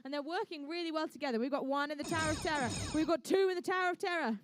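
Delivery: brisk, upbeat match commentary; live play-by-play. Acted. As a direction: call every ball into the tower.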